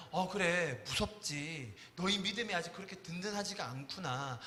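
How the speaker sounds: soft, quiet, tender reassurance; gentle Jesus. Retold or imitated. Jesus comforting scared disciples, soft and tender. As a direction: speak softly like comforting frightened friends. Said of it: "말을 어떤 뉘앙스로 하느냐에 따라".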